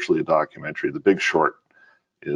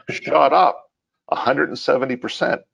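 laughing; 9 semitones higher than usual. Real, not acted. Excited about fund price jump.

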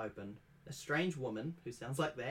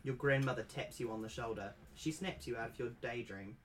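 ordinary delivery, nothing marked

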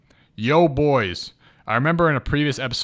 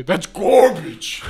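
slow, high, put-on voice of a friend; Landon impression; 6 semitones higher, 5 dB louder, much slower than usual. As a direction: drag it out in a friend's voice. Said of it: "As Landon would say".

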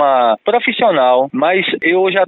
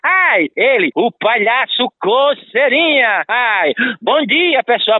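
high, teasing circus clown; playful clown voice; 3 semitones higher than usual. Acted. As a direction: hype the crowd as a silly clown. Clown Coceirinha introduces himself.

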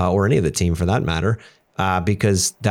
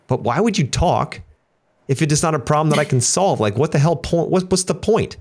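mock disbelief at his wife; baffled; 7 semitones higher than usual. Husband baffled that his wife only wants to vent, pitched-up mock disbelief. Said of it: "And I'm like".

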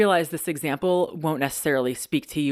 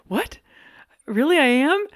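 much higher, louder disbelief; retold shock; 13 semitones higher, 5 dB louder than usual. Shocked at husband's answer.

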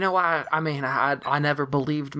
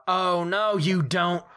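sharp, raised cry of defiance; shout; 6 semitones higher, much slower than usual. Acted. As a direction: call it out to stop the monster. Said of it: "I'm gonna shout".

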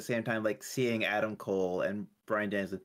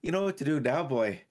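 witch voice; 3 semitones higher, 4 dB louder than usual. Pretend. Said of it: "your witch laugh".

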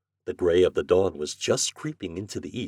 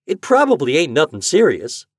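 put-on raised, louder young voice; protesting boy; 7 semitones higher, 8 dB louder than usual. Boy dissuading his mother, protesting. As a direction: brush off her worry loudly.

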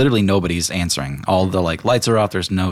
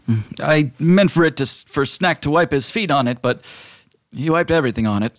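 genie; 7 semitones higher than usual. Acted. Genie complains about the rug.

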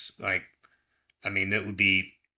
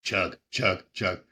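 frat bro; slower than usual. Real, not acted. Coaching a chugging challenge.

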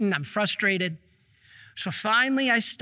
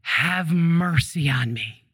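pleading for mercy; 6 semitones lower, slower than usual. Retold or imitated.

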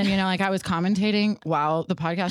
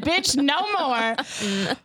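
voice of God; 5 semitones higher, much slower than usual. Retold or imitated. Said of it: "he said".

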